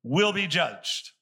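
very slow, weighty preaching of the verse; strong, slow scripture reading. Shown as a demonstration. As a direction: lean on every word, slowly, like a warning. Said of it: "he's gonna get real strong here".

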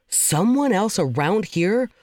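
slow, puzzled disbelief, played for laughs; re-enacted incredulous reaction; mock bafflement. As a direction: question it slowly, as if baffled. Retold baffled reaction to lookalike.

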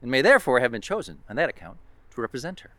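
light colonial American accent, read formally. Shown as a demonstration. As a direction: recite it like an 18th-century colonial American. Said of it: "a colonial accent".

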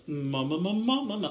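mock actor's vocal warm-up, rising; actorly. Young actor showing off at the casting office, mock-actorly voice. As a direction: hum and swoop like a self-important actor. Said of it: "behaving very actorly".

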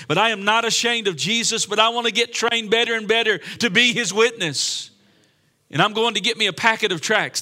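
impassioned preaching. Real, not acted. Preacher vows to become a better witness, impassioned preaching. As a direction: declare it with rising conviction.

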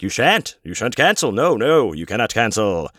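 hammed-up indignant "you shan't"; mock haughty refusal. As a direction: forbid it with mock grandeur. Mock refusal by the show's organizers.

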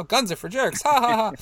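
high, loud hammed-up ha ha ha; mock joke laugh. Picturing everybody laughing at the imagined joke, hammed-up laugh. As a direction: fake a big laugh at your own joke.

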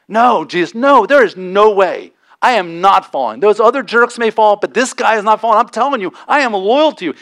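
a stubborn fisherman swearing loyalty; emphatic insistence. Retold or imitated. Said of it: "Peter says emphatically".

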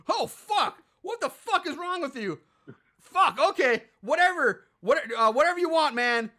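high, loud mock freak-out; mock panic. Ronnie seeing Assface and fleeing, high loud mock panic. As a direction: play the spooked guy bailing out fast.

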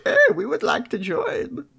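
high, rough put-on orc voice. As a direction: play it like a grunting orc. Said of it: "make your orc voice".

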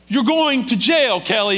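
high, loud, slow imitated wifely yell; exasperated shout. Wife to husband facing arrest, exasperated shouting. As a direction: drive it home to him, loud and drawn out.

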